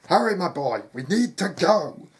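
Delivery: loud, high, hurried command; urgent call. Acted. Father rushing his son to the stables, urgent call. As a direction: call out to get the boy moving. Father urging Sam to flee.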